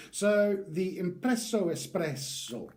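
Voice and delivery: mock Italian accent. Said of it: "why do I keep saying it like that?".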